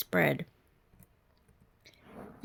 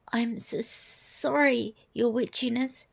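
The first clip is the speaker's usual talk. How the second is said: stuttering; 5 semitones higher than usual. Acted. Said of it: "the man stuttered".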